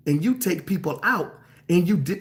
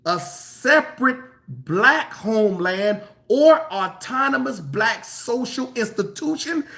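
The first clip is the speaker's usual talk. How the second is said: slow emphatic reread; 3 semitones higher than usual. Shown as a demonstration. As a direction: reread it slowly so it sinks in. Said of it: "No, let me read that again".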